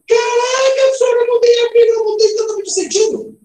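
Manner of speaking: high, loud, astonished exclamation; hammed-up student amazement; amazed pupil. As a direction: cry out like a student making a discovery.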